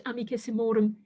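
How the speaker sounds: amicissimorum stressed on "mor"; stress on penultimate syllable. Shown as a demonstration. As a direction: put the main weight on "mor" in amicissimorum. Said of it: "we put the stress on that syllable".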